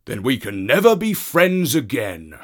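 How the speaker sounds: Wild Dog voice. Acted. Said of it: "said Wild Dog".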